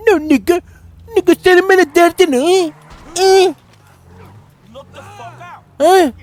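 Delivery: put-on high, loud American street accent; mock American gangsta accent. Player taunts game characters in mock American gangsta accent. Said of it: "Böyle bir aksan yapman lazım".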